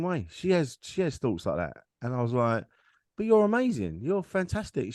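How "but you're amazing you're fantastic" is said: higher-pitched, insistent praise; retold reassurance to a loved one; earnest reassurance. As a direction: build them up, pitch lifted. Reassuring his partner in retold talk.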